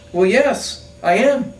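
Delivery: shouting back. Acted. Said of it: "he says".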